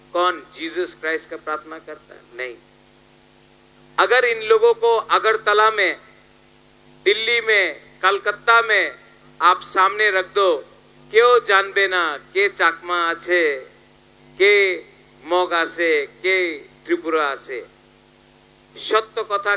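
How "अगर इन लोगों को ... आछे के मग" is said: raised, projected stump speech; rally oratory. Acted. Politician asking the crowd about these candidates, raised oratory. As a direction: address the whole crowd forcefully.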